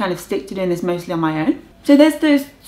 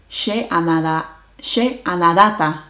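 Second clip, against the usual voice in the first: "anadata" stressed on the ending, "anada" on "na"; accent shift. Shown as a demonstration. Showing viewers how future tense shifts the stress. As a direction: move the stress to the end syllable. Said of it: "the accent moves to the".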